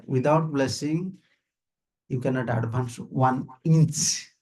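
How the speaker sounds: slow, weighty words, rising on "inch"; quoted teaching. Retold or imitated. Teacher quotes his guru to devotees, slow stress on "inch". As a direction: draw out "one inch" slowly, lifting "inch" at the end. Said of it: "Our Gurudev used to say".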